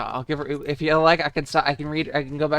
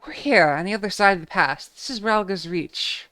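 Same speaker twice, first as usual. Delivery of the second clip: lightly voiced airy British girl; 5 semitones higher than usual. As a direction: read it a bit higher. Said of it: "she sounds like an airy, airy British girl".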